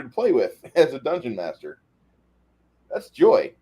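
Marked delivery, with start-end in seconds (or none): 2.9-3.5 high, loud delighted squeal; real glee, pitched way up; gleeful. Real, not acted. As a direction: savour the evil joy. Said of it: "delighted at duplicating a player".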